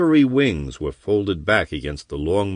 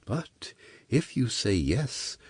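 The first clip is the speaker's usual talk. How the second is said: soft, slow whisper; 3 semitones higher, 9 dB quieter, slower than usual. Acted. Temptress to the chained corsair, whispering. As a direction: breathe it like a secret. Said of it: "she whispered".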